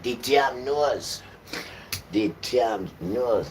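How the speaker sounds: The damn nose drawn out slow and loud, damn hit hard; stressed slow. Shown as a demonstration. Preacher to congregation, damn nose slow and loud. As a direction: hammer each word of The damn nose. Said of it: "I've got to put damn nose in it".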